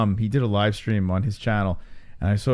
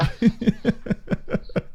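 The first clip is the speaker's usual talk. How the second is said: high breathy laugh; 11 semitones higher than usual. Real, not acted. Laughing at crude joke.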